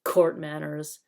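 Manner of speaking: sneering. Acted. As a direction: sneer the words court manners. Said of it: "sneered Nickabrick".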